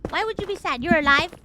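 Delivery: a hint of an exasperated mom; lightly voiced insistent mother; imitating scolding mom.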